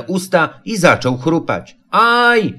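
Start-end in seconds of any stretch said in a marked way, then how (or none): 1.9-2.5 sudden yelp. A narrator's reading. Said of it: "wrzasnął nagle".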